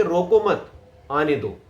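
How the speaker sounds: "रोको मत" as one unit, short pause, falling "आने दो"; group रोको with मत, then pause; pause after मत. Shown as a demonstration. Coach explains the line's meaning, pause after मत. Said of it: "मतलब मैं कह रहा हूं कि".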